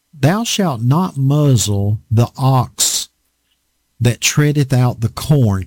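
slow, weighty King James reading; solemn scripture. Acted. Preacher reading the law of Moses, slow and solemn. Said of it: "it's written in the law of Moses".

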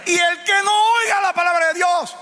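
high, slow, shouted preaching; preaching at full force. Acted. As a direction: cry it out to the congregation, drawn out. (predicación a todo pulmón, gritada y lenta)

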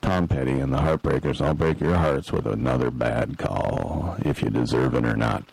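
petty ref. Pretend. Imagined ref answering the chanting fans, petty. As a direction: sink into a spiteful ref's inner voice. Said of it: "I'm like".

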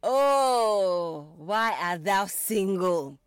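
loud, drawn-out theatrical wail; hammed-up Shakespearean moan, slowed right down; mock lament. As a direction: cry out like a melodramatic lonely heart. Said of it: "you're like".

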